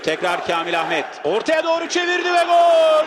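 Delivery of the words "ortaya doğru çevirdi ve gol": excited goal call. Real, not acted. Goal scored, commentator shouts.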